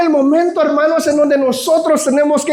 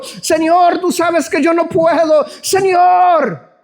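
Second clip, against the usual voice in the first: whiny pleading, building to a mild wail on the last lines; a grumbling believer begging God over and over; complaining prayer; slower than usual. Retold or imitated. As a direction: moan each Señor like a tired complainer. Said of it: "es una oración de puro quejas".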